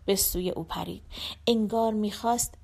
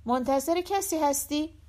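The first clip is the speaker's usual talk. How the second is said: calling out; 5 semitones higher than usual. Acted. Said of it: "داد زد".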